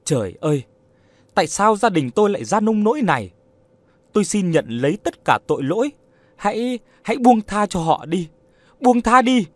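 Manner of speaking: anguished high wail, building; weeping and moaning. A narrator's reading. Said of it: "vừa khóc vừa rên rỉ".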